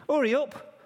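high-pitched, impatient yelling; loud shout. Acted. Joseph banging on the inn door, shouting loudly. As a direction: call out loudly, demanding to be let in. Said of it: "he shouted loudly".

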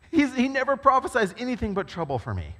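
king grumbling to his advisers, half-hammed complaint; mock exasperated king. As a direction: play the sulking king, lightly. Ahab complaining about Micaiah.

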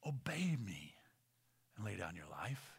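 soft, half-whispered voice of God; quiet imagined command from God; hushed divine command. Acted. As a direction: speak low and solemn as God.

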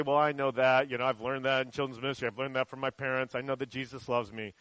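low, quiet, monotone brush-off; offhand dismissal. Acted. Imagined listener shrugging off a familiar lesson, offhand and dismissive. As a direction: lightly mimic a listener who has heard it all.

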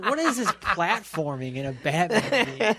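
laughing through the complaint. Retold or imitated. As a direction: chuckle while griping. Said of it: "I was like".

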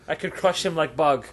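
hammed-up German accent; mock German accent. Star boasts about beating a child, mock German accent. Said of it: "like a German accent for that one".

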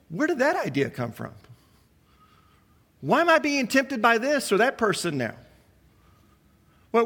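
a preacher voicing a troubled believer's thoughts; inner voice of the tempted. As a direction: fret aloud as the struggling believer.

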